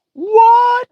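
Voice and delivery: loud, very high "What?"; indignant surprise at the news; shocked. Real, not acted. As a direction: gasp of disbelief at the headline. Reacting to bank freezing accounts.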